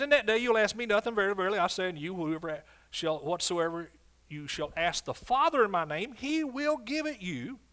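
King James verse read out with force, slowing to the end; preaching scripture. Acted. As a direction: proclaim the old verse like from the pulpit.

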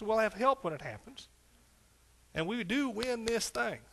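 high, loud revival preaching; rally the congregation from the pulpit; full-force preaching. Acted.

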